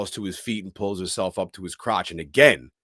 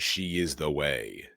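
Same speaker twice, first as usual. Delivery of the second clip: hushed realization; 6 semitones lower, 5 dB quieter than usual. Retold or imitated. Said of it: "He looks up in shock and says".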